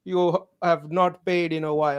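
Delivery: slow, stiff mock scam caller. Mocking an IRS scam caller to his cohost, slow and stiff. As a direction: play the scammer reading his script slowly.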